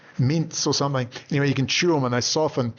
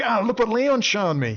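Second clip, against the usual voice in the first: friend's remark; 9 semitones higher than usual. Retold or imitated. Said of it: "My friend said".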